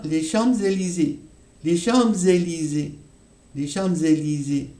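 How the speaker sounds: "Champs-Élysées" said with a z linking into Élysées; liaison demo. Shown as a demonstration. Teacher showing students the liaison in "les Champs-Élysées". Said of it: "Ici, on entendra".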